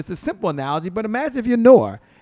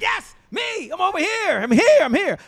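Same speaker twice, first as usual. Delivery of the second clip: eager calling out; 13 semitones higher than usual. Pretend. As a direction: wave yourself into the spotlight. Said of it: "I'd be like".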